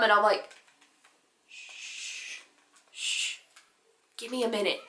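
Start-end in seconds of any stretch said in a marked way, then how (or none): 1.5-4.8 hushing. Retold or imitated. Girl hushing her mom before a prank, hushed. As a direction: quietly shush someone, imitating a secretive moment.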